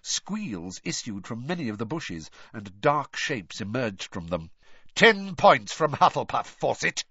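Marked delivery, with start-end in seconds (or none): 4.9-7.0 loud snarl at a fleeing student. A narrator's reading. Snape punishing a girl running past, loud snarl. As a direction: bark the penalty out loud and angry. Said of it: "Snape snarled".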